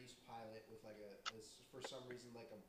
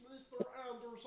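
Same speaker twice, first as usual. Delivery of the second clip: Agent Smith voice; 9 semitones higher than usual. Retold or imitated. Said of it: "She's going Matrix over here".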